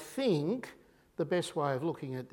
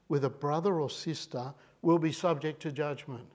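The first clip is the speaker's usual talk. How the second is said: scripture reading; 2 semitones lower than usual. Acted. Preacher reads Jesus' words aloud to the church. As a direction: read it out like scripture.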